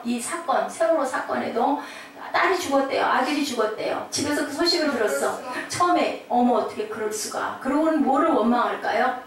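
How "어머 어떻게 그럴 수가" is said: mildly stunned, unable to accept it; stunned disbelief. Acted. Parent hearing the news at home, understated stunned disbelief. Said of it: "처음에는 놀래고 인정하고 싶지 않고".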